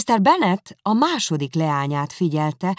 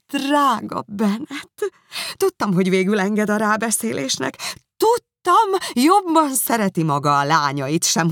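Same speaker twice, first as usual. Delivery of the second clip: joyful outburst; 6 semitones higher, 4 dB louder than usual. A narrator's reading. Wife thanking husband for visiting Bingley, gushing with delight. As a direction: gush over him, overjoyed. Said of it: "az első örömkitörés".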